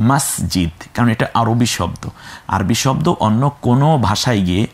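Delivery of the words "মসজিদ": মসজিদ said the Arabic way as masjid, voiced j, lower and softer; Arabic pronunciation. Shown as a demonstration. Teacher models the Arabic word for students, careful masjid. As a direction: model মসজিদ as masjid, not Bengali moshjid. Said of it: "এখন থেকে শব্দটা আমরা বলবো কি".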